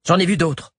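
put-on high, defiant young woman's voice. A narrator's reading.

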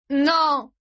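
high, anguished wail; sobbed cry. A narrator's reading. Son watching his father die, sobbing. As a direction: sob it out. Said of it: "sanglota Gray".

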